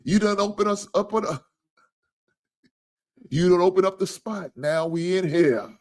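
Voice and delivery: high, loud hyped-up quote; imitating an excited commenter; excited viewer quote. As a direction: hype it up like a fan cheering. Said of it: "B one said".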